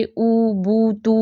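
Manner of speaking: "او، بو، تو" as separate rounded oo syllables; rounded sound. Shown as a demonstration. Teacher showing how pesh sounds round, rounded oo. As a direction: round the lips on each of "او، بو، تو". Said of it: "آواز گول ہوتی ہوئی محسوس ہوتی ہے".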